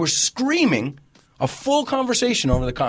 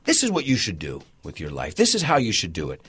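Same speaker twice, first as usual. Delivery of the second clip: bossy advice; 6 semitones lower than usual. Retold or imitated. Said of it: "another one that people say".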